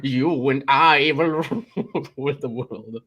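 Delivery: triumphant cartoon villain, laughing; evil villain voice. Villain banter climax.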